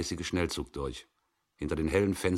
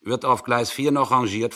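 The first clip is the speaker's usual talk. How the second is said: higher, louder anxious question; Müller urgently asking the signalman; 6 semitones higher, 8 dB louder than usual. A narrator's reading. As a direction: press him for an answer.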